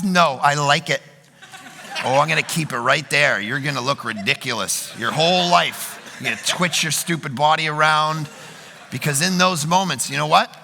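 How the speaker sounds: God's voice. Retold or imitated. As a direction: play God, smug and unbothered, deep down low. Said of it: "God says".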